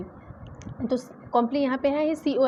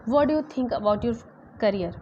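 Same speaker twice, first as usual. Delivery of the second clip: slow example sentence; much slower than usual. Shown as a demonstration. Teacher modelling an English sentence, slow and clear. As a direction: read it slowly, word by word. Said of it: "जैसे मैंने बोला कि".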